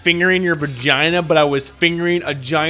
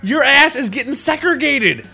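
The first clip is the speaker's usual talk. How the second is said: emphatic insistence; 11 semitones higher, 4 dB louder than usual. Real, not acted. Insisting on quarantine.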